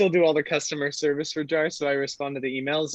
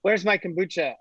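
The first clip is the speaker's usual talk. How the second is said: lightly imitated Welsh caller, pitched up; Welsh accent; 4 semitones higher than usual. Welsh customer rings the founder about his kombucha, mock Welsh accent. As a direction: put on a touch of thick Welsh. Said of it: "in this thick Welsh accent".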